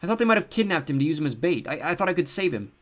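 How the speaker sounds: high, stammering through sobs; sobbing. A narrator's reading. Seth sobbing to his sister about the window. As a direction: choke the words out crying. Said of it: "he sobbed".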